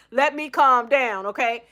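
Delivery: the laugh fading out of the words; settling herself after laughing; still laughing. Real, not acted. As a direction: ease down from the laughter.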